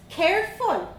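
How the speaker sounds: put-on high, bold Dublin girl voice; young Dublin girl. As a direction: play a cheeky little Dublin girl. Vanessa snaps.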